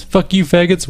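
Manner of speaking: high-pitched stress on "Fuck you, faggots"; extra stress on a word. A narrator's reading. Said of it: "She puts extra stress on the word".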